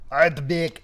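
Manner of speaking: "Ardbeg!" said loud with a rising end; "Ardbeg!" pronounced boldly, with a rising question tone; trying to say Ardbeg. Shown as a demonstration. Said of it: "I'm probably saying that wrong".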